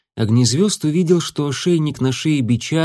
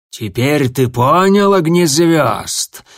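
slow, louder barely hidden glee; gloating; 3 semitones higher, 4 dB louder, slower than usual. Acted. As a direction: savour the victory slowly. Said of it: "плохо скрытое ликование".

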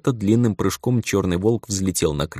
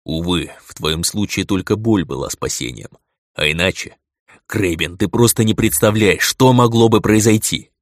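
usual speaking voice

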